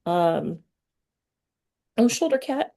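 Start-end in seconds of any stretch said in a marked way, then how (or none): 2.0-2.7 cooing at cat. Real, not acted. Host spots the cat on camera, high cooing baby talk. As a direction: coo at the little cat, pitched way up.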